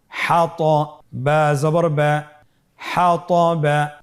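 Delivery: slow, measured syllable-by-syllable chant; spelling-drill recitation. Shown as a demonstration. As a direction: spell it out for learners, stretching each sound. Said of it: "এভাবে বানান করে পড়ব". (ধীরে টেনে বানান করে পড়া)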